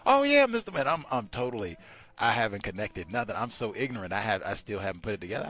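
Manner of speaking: loud, high self-mocking admission; hammed-up humble confession; sheepish. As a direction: play the embarrassed student. Retold own sheepish reply.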